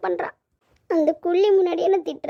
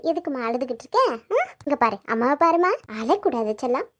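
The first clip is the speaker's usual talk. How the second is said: tender, gently lilting comfort; coaxing mother's voice, easing down; motherly soothing; 4 semitones lower than usual. Acted. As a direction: soothe a crying child. Mother soothing crying daughter.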